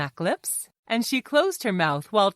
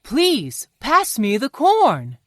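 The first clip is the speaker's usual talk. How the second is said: higher-pitched, courteous asking; polite request; 5 semitones higher, slower than usual. A narrator's reading. Johnny asks Fox for the corn, polite request. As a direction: ask nicely, with careful manners. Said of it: "said Johnny politely".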